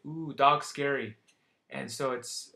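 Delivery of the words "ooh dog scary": put-on loud childlike "dog scary"; toddler voice. Shown as a demonstration. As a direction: say it like a scared toddler. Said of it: "or you might say".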